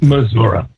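Missouri said Missour-uh, ending in uh; local Missouri. Retold or imitated. Co-host echoing the local Missour-uh. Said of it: "that's how they say it".

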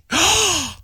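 sharp high gasp. Retold or imitated. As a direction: gasp in mock shock. Mock gasp at the news.

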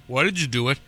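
sarcastic. Retold or imitated. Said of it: "I was being sarcastic with saying".

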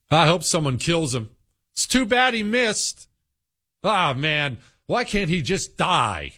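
mocking Democrat talk. Host mocking how Democrats talk, sneering high imitation. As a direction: parody a callous partisan, half-hammed. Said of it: "They all talk like this".

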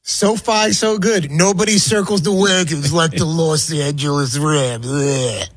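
lightly done sportscaster impression with drawn-out words; Chris Berman. Host attempting a sportscaster's catchphrase for Rams headline, light impersonation. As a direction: stretch it out like a catchphrase, ending on a grunt. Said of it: "I'm trying to do the impersonation".

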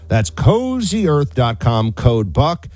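upbeat host-read sheet ad. Acted. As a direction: sell the sheets, friendly and smooth. Host reads sleep ad.

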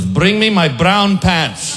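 a frightened captain losing his nerve; captain squeaks out the order; scared captain. Acted.

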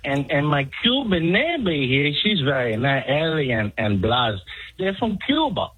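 put-on Latino accent. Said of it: "do you not have a Mexican?".

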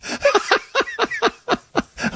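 high, helpless continued laughing; real laughter. Real, not acted. Co-host still amused by the threat, high real laughter. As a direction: keep cackling as the joke lingers.

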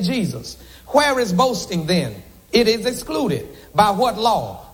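steady, measured reading of the passage; scripture reading. Acted. Preacher reads Romans three to the congregation, measured scripture reading. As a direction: read the verses aloud to the church.

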